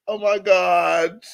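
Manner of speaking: high, slow mock-scandalized host; Wendy Williams. Blogger reacting to gossip, in a Wendy Williams voice. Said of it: "In my Wendy Williams voice".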